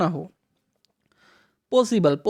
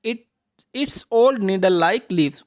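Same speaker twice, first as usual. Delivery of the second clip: slow read-aloud; much slower than usual. Shown as a demonstration. Teacher reading the answer to children, slow. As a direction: answer read out slowly, word by word. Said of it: "reads answer option slowly".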